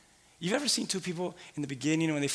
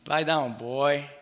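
stern parent; much slower than usual. Retold or imitated. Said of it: "I'm gonna insert something".

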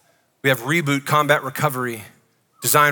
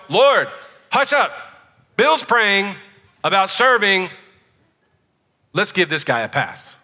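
raised, halting mock announcement; mock heavenly awe; 5 semitones higher, slower than usual. Heavens react to Bill praying about serving, mock-reverent. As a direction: hush heaven in pretend amazement, pausing between phrases.

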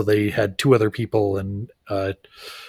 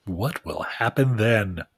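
slow, dramatic mock question; teaser announcer; 5 dB quieter, slower than usual. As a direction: pose it like a serial cliffhanger.

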